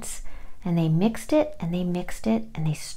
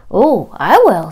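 piglet voice; 11 dB louder than usual. Acted. Said the pig.

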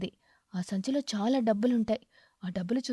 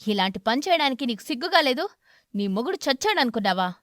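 louder, enraged husband; furious; 4 dB louder than usual. Acted. Crow raging at home at his wife. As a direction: hurl the question at her. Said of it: "కాకి కూడా ఆవేశంగా".

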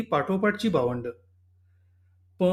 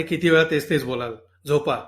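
angry mimicry of "झोपा", louder; mocking anger; 3 semitones lower, 3 dB louder than usual. Husband mocking wife's calm advice, irritated and louder. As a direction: throw her calm words back in irritation. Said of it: "यांना या शांतपणाचाच राग आला".

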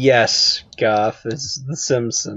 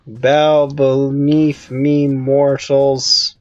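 mock lordly command; much slower than usual. Player plays lordly over foes.

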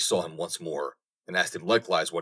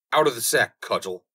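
loud command to the cudgel, higher at the start; cried command; 3 semitones higher, 4 dB louder than usual. Acted. Turner cries out to his cudgel, loud command. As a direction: call the cudgel out of the sack. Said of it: "he cried".

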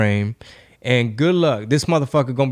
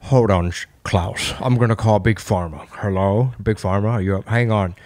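lightly voiced old German billionaire, a bit low; a hint of a decrepit foreign tycoon on the phone; mild low old-man German voice; 4 semitones lower than usual. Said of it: "he kinda did sound like an old German".

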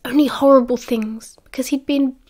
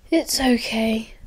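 conversational; 4 dB quieter, slower than usual. A narrator's reading.

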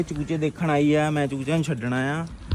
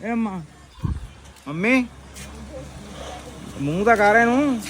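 calling to mom; 3 semitones higher than usual. Real, not acted. Calling to mother, teasing.

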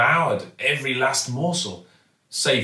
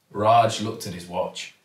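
ordinary delivery

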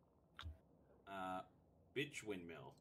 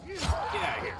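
squeaky character voice; 5 dB louder than usual. Pretend. Voicing character shoving someone.

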